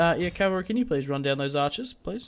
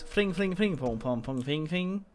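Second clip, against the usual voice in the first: mock Welsh gibberish; 3 semitones higher, 4 dB quieter than usual. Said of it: "That's what you sort of say".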